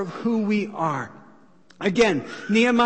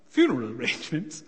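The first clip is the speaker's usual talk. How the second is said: low-pitched, puzzled hobbit reading the contract; small hobbit reading; 6 semitones lower, 4 dB quieter, faster than usual. Acted. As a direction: read it out as the hobbit, taken aback. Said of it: "this is him".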